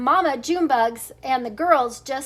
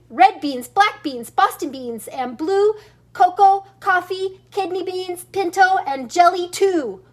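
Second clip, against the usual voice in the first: excited listing; 4 semitones higher, 4 dB louder than usual. Acted.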